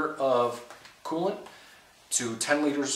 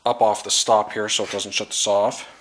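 shouting over table saw; 6 dB louder than usual. Real, not acted. Talking over running saw.

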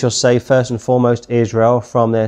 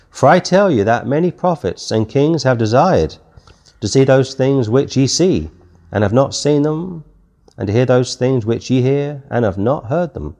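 scripture reading; 2 semitones higher than usual. Acted. Reads scripture aloud.

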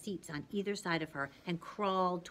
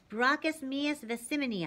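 yelling; 6 semitones higher than usual. A narrator's reading. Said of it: "I yelled".

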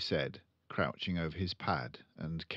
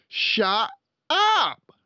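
high, loud shut-up bark; angry father shout; loud snapping father; 13 dB louder than usual. Acted. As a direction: cut her off hard. Father voiced.

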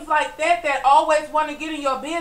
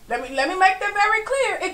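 voice breaking; 4 semitones higher than usual. Real, not acted. Emotional rant breaking.

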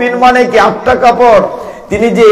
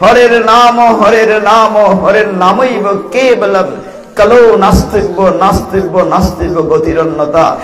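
scripture recitation. Acted. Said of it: "বৃহৎ নারদীয় পুরাণে বলা হয়েছে".

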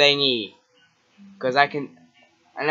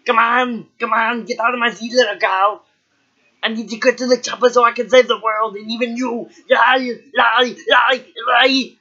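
lightly voiced action hero, faster; mock tough guy in a hurry; Arnold impression; 5 semitones higher than usual. Arnold pleading for the seat, lightly gruff. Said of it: "I'm Arnold".

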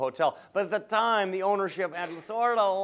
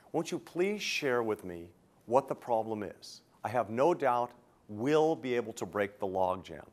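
gentle coaxing ask; 3 semitones lower than usual. Shown as a demonstration. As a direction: coax him gently to open up. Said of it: "here's the words".

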